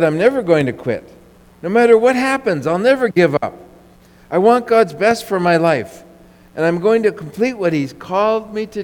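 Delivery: resolute declaration. Retold or imitated. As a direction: proclaim it like a man who will never quit.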